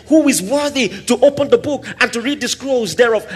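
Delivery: high, ringing proclamation; chanted announcement from heaven; proclaiming call. Retold or imitated. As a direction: call it out like a herald. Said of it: "someone said".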